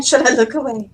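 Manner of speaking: laughing. Real, not acted. Reading chat comment laughing.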